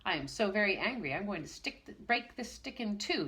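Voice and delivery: angry, fast outburst; rage. Acted. Teacher threatens to break the wand, enraged. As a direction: blurt it out in a fury. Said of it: "he cried suddenly in a rage".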